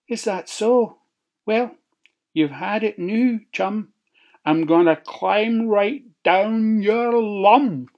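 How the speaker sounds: high, sly, menacing wolf. A narrator's reading. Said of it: "wolf threatens".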